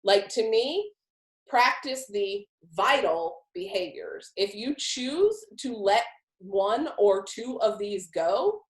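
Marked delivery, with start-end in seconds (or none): 1.5-4.3 slow, deliberate weight on "vital"; "vital" drawn out for emphasis; emphatic on "vital". Shown as a demonstration. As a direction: spell out the importance of "vital" by slowing right down. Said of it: "Maybe I'm not emphatic enough when I say the word vital".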